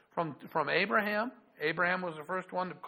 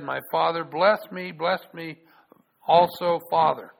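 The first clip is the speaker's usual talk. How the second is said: loud pleading voice, the last words louder; pleading cry; 9 dB louder than usual. Acted. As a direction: beg your father loudly for a blessing. Esau pleads with father.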